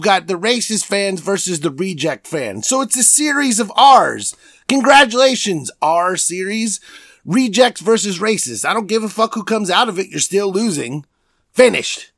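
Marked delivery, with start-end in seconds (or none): 2.7-12.1 higher, louder mocking rant. Real, not acted. Podcaster ranting about Jazz and Clippers fans, higher and louder. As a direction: build the rant up, pitch rising.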